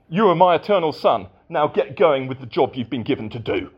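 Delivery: fast, businesslike brush-off; hurried, cold employer's order; brisk demanding boss. Pretend. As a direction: rattle it off like a headmaster handing out work. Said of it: "like a distant headmaster who only wants".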